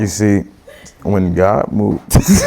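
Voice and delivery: slow, drawn-out preacher voice, mocking; mock deep IG voice. Co-host imitates his IG preaching voice, slow and mock-dramatic. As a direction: parody his Instagram sermon voice. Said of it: "you would just have the deep voice".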